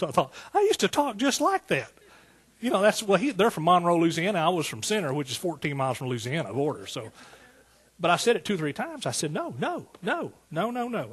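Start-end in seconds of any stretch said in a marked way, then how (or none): 0.5-1.9 high, loud backwoods voice, lightly imitated. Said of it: "when I think of Si". 9.3-11.1 high-pitched, re-enacted pleading no's; mildly hammed-up emotional protest; emotional refusal. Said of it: "I was getting real emotional".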